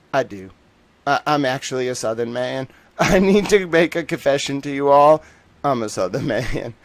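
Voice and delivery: mock-earnest Southern confession; amused Southern accent with laughter breaking in; put-on Southern accent. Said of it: "I speak in a Southern accent now".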